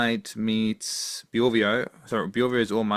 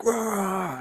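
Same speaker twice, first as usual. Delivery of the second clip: mock battle roar; 11 semitones higher than usual. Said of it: "in your videos, it's usually, like".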